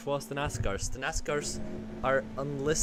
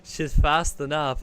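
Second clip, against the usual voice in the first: laughing; 2 semitones higher, 11 dB louder, slower than usual. Real, not acted. Reads viewer comment, bursts laughing.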